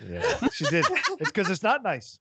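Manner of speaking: put-on old lady voice. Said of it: "you can't make old lady voices".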